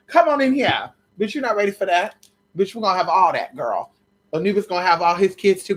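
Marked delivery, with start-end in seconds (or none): 0.1-0.9 higher, louder calling out; a loud, higher welcoming call. Pretend. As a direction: call them in loudly.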